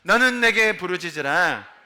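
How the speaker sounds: slow, drawn-out declaration; loud proclamation. Shown as a demonstration. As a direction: proclaim the verse to the congregation, slowly. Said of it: "우리 큰 소리로 선포하며 읽습니다".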